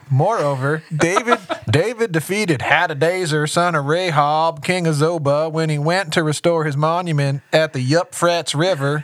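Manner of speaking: slightly slow Southern drawl; hint of a Southern accent. Shown as a demonstration. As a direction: read the scripture with a Southern twang. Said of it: "How did this just go from Hebrew to I don't know what?".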